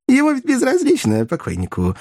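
high, wheedling hoarse stage whisper. A narrator's reading. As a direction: wheeze it out high, as a would-be whisper. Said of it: "шёпотом сипел Коровьев". (сиплый театральный шёпот)

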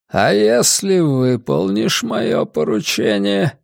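a frail, scheming old man, lightly voiced. Old man character speaks.

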